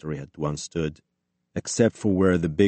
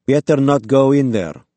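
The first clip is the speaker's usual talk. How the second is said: loud, higher-pitched warning; called warning; 7 semitones higher, 8 dB louder than usual. A narrator's reading. Armed stranger warns an intruder off, loud warning. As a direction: call it out sharply to stop an intruder.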